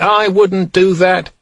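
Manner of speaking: man sharply cutting off the doctor; sharp interruption. A narrator's reading. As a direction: cut in sharply, slow and firm. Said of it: "interrupted the man sharply".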